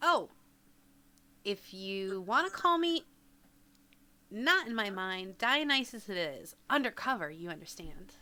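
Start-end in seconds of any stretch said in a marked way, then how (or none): none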